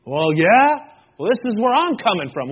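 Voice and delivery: mock defensive comeback; acted-out insistent rebuttal, first round; argumentative retort. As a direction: butt in to argue your own side.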